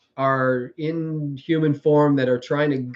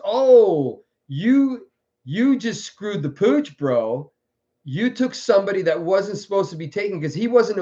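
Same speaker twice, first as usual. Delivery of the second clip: scolding retold hero; 3 semitones higher than usual. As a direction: tell off the villain, half in character. Acts Starbuck confronting Iblis over killing.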